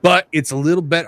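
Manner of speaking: a hint of a Texan cowboy reading a promo. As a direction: read it as a mild Southern cowboy. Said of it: "I'm trying to do a cowboy voice".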